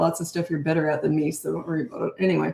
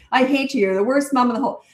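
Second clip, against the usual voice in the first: put-on angry kid; 6 semitones higher than usual. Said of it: "my kid ever talked to me like that".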